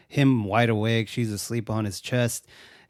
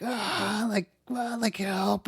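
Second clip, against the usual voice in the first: mock distant scream; 9 semitones higher, 5 dB quieter, slower than usual.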